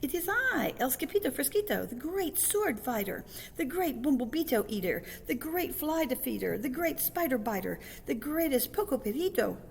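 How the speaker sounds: high, boastful mock-Spanish flourish; grand swashbuckling hero. A narrator's reading. Kitten announces himself as the great sword fighter, grand boast. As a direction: trumpet each title high and proud.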